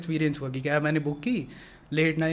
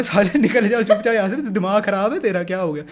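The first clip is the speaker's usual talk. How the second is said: louder, higher scolding; angry telling-off; 4 semitones higher, 6 dB louder than usual. Retold or imitated. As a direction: drive the drunk guys away with a snap. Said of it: "मैंने तब दे दिया गफ्फा".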